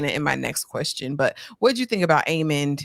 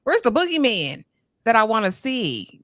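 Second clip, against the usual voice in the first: mock taunt; 6 semitones higher than usual. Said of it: "I said".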